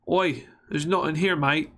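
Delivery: put-on light Australian accent; a hint of an Australian accent. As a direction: say it like a casual Aussie. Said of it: "said that with an Australian accent".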